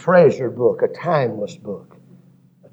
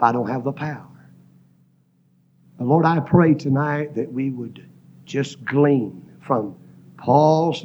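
prayer. Real, not acted. Closing prayer.

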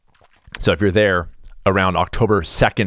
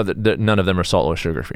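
normal talking voice

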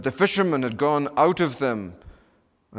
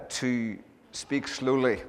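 drawn-out, slowed-down words; slow it right down as a playful demo; slowly; slower than usual. Shown as a demonstration. Joking to the Texas congregation about his speed, slowly. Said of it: "I'll do my best this evening".

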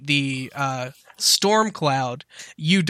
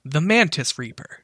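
robot voice. Acted. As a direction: speak it like a machine. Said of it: "same robotic voice just go".

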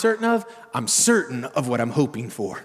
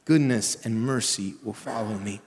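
desperate; 3 semitones lower, 3 dB quieter than usual. Shown as a demonstration. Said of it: "a desperate one".

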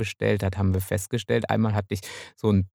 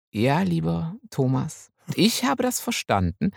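slow, mock-earnest reply; mock solemn; 2 semitones higher, slower than usual. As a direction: say it with fake gravity. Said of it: "ich könnte ja jetzt sagen".

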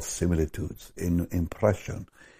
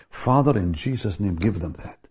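prayer; 3 semitones higher than usual. Acted. Pastor prays over congregation.

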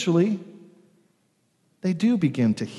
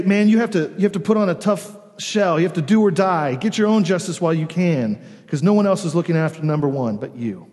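raised, emphatic voice of hard advice; tough-it-out urging; 3 semitones higher, 3 dB louder than usual. Acted. Voices telling you to toughen up, hard urging. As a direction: press it like a tough-minded pep talk.

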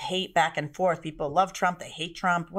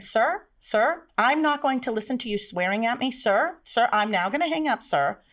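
firm, slightly raised objection; officious service agent; 4 semitones higher than usual. Acted. Service agent to swearing customer, firm and officious. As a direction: cut the caller off with insistent sirs.

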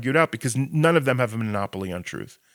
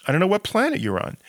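mock the idea as absurd; exasperated scoff. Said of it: "Most Israelis are like".

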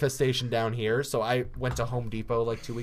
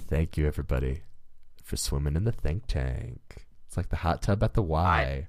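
mock announcer sign-off; 12 semitones lower than usual.

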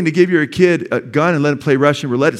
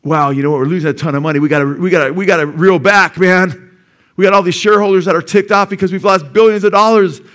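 louder, rising alarm, hammed-up; mock panicked Disney exec; 3 semitones higher, 5 dB louder than usual. Pastor mocks Disney bosses fretting to shareholders, loud mock panic. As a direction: play a corporate bigwig in a panic over losses. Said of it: "You think Disney's like".

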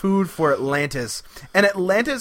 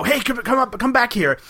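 higher-pitched, stumbling mock call; mock calling after someone; 5 semitones higher than usual. Ben and Polly calling the Doctor back, mock urgent.

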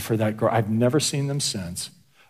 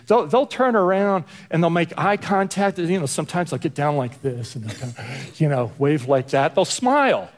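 higher, bright-eyed imitation of a friendly wave; cheerful friendly greeting; 3 semitones higher than usual. Describing neighborhood women who wave back, mock cheerful. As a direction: act out a woman smiling and waving hello.

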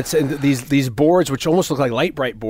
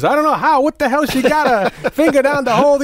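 higher, louder exasperated rant; mock griping boss; 12 semitones higher, 4 dB louder than usual. Boss griping about the lost ring, higher and louder. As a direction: complain like a cranky boss.

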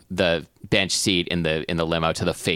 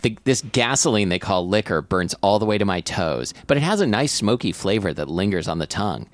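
measured first-person narrator reading; narrating a comic tale; story narration. Acted. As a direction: read the story aloud. Reads story aloud.

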